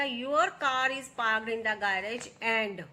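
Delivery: very slow, every word laid out for students; slow dictation read. Shown as a demonstration. Teacher reading the example to her students, slow and deliberate. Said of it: "teacher reads answer sentence".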